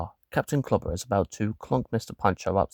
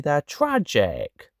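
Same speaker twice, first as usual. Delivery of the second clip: slow disapproval; 6 semitones higher, much slower than usual. Acted. Objecting to bad jokes.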